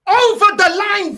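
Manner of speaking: angry slow repeat, real frustration. Real, not acted.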